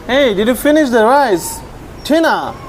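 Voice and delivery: high, questioning call; calling to pet. Real, not acted. Checking on a pet's eating.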